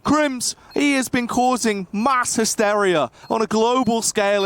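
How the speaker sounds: building hype for the clutch; excited caster. Real, not acted. Clutch round play-by-play climax.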